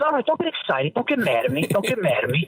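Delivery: placating dad voice; lightly imitated Italian dad; dad calming you. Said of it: "he always goes".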